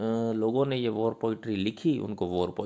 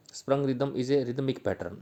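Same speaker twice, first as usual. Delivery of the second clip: slow dictation; much slower than usual. Shown as a demonstration. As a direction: dictate it so students can write it down. Dictating notes slowly.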